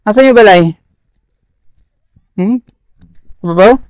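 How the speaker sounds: breathless from the mountain climb; out of breath. Real, not acted. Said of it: "Hinihingal ako".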